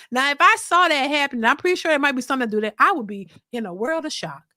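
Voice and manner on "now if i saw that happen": ordinary talk, nothing marked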